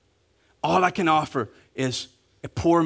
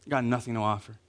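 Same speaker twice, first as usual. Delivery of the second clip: soft, low confession to God, fading away; soft broken prayer of confession; humble prayer; 4 semitones lower, 5 dB quieter, faster than usual. Retold or imitated. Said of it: "you go before God and you're like".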